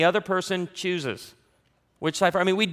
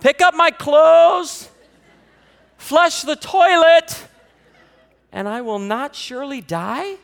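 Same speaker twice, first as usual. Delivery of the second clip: much higher and louder, slow proud recital; eager kid; 9 semitones higher, 8 dB louder, slower than usual. Retold or imitated. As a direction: rattle it off like a proud child. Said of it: "he goes".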